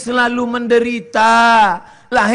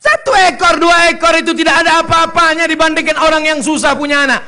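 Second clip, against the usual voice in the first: much higher, louder scolding; emphatic rebuke; 8 semitones higher, 5 dB louder than usual. Acted. Preacher rebuking stingy parents, loud and stern.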